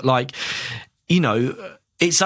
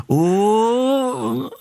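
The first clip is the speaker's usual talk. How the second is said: deflating crowd oh; 8 semitones higher than usual. Retold or imitated. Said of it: "It went".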